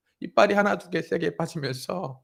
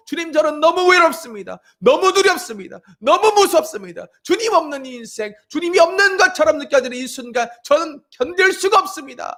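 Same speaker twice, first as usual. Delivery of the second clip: voicing a weeping woman; 11 semitones higher, 8 dB louder than usual. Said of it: "라고 울고 있는".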